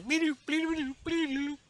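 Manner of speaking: high chirpy droid beeps; droid beeping. Retold or imitated. Imitating the mouse droid, high chirps. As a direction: chirp like a tiny robot.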